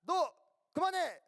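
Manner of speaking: high, sharp mock shout; staged angry yell in short bursts; acted fed-up outburst. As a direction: burst out as if patience has run out. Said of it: "하면서 막 싸울 것 같아".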